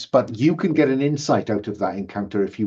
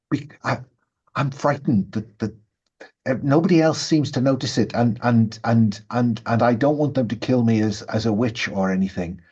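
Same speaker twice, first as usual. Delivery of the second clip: lightly played, stammering fear; frightened secretive woman. Villager fears being killed as a witch, frightened stammer. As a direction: confide it haltingly, a touch afraid.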